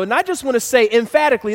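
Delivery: usual speaking voice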